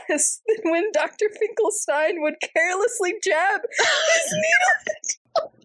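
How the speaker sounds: high, slow, laughing read; can barely get it out for laughing; reading aloud while cracking up; laughing through words. Real, not acted.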